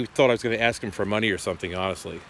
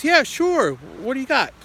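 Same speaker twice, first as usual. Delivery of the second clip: a light, high put-on old grandpa voice; lightly voiced grandfather, chirpy and willing; imitating grandpa; 12 semitones higher than usual. Grandson retells grandpa answering the phone, lightly voiced old man.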